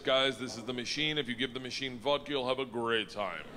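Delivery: put-on Russian-accented introduction; imitated Russian accent. Gangster introducing his friend to two others, Russian accent. Acting Igor introducing the machine.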